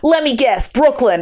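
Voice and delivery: imitated heavy Brooklyn accent; old Brooklyn dude. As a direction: play the old New Yorker from Brooklyn. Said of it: "real heavy accent".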